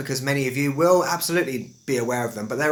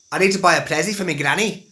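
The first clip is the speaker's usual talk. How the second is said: higher, louder Scouse impression; playful Scouse catchphrase; Scouse accent; 4 semitones higher, 4 dB louder than usual. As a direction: put on a broad Liverpool accent. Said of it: "a Scouse accent".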